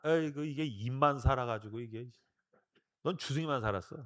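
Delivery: low, dismissive mock scolding; scornful grumble. Jesus hearing Peter's confession, scornful grumble. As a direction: grumble in disgust at an empty talker.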